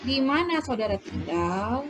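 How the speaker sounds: "Di mana saudara tinggal?" asked with lifted question tune; question intonation. Shown as a demonstration. Teacher reading an example question to students, question intonation. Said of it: "karena ini intonasinya kalimat tanya".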